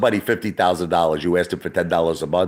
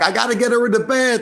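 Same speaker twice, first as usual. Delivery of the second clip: high-pitched urgent imitation; acted alarm in a much higher voice; retold panic. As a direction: blurt it out high, mock-frantic. Retold panic over passed-out wife.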